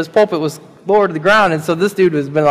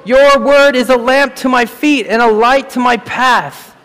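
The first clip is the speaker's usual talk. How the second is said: ringing, slowed proclamation of scripture; proclaimed verse; 5 semitones higher than usual. Shown as a demonstration. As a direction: declare the verse like a preacher. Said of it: "As the psalmist wrote".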